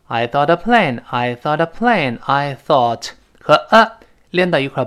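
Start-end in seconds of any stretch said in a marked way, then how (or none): 0.1-2.2 "thought a" run together as one; linked reading. Shown as a demonstration. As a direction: glide from "thought" straight into "a plane". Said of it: "注意I thought a plane连读了". (“thought a”连读)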